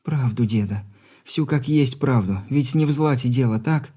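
put-on insistent young granddaughter; young woman voice. Granddaughter speaking.

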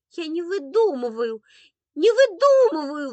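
put-on high, loud wailing child; bursting into tears. A narrator's reading. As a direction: wail in protest like an upset little boy. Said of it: "вдруг разрыдался Андрейка".

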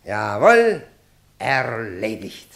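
loud, drawn-out sneer of triumph; mocking scorn. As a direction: jeer at the opponent. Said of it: "diesmal mit deutlichem Hohn".

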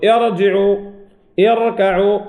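ارجعوا، اركعوا with thick, velarized r; heavy ra. Shown as a demonstration. Teacher showing two like examples, heavy ra in both words. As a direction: make the ra full in ارجعوا and اركعوا. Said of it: "تفخم راء".

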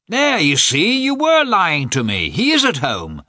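high, loud triumphant call; loud protest. A narrator's reading. Visitor to the servant blocking his way, loud protest. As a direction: call it out as you push past.

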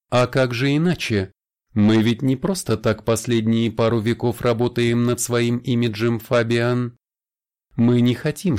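a hint of a suave vampire; lightly voiced vampire. Vampire Sarin's voice in dialogue. (слегка обозначенный голос вампира)

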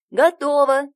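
высоко и громко, радостно; звонко прокричи; весёлый крик. A narrator's reading. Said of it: "весело кричит Пой-Пой". (весело кричит)

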